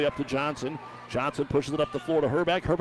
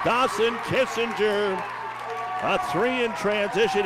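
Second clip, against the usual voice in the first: shouted, higher-pitched celebration of a basket; big excited call; 5 semitones higher than usual. Real, not acted. Announcer calls Kissinger's three in transition, shouting with excitement. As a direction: build to a shout, then stretch out the name.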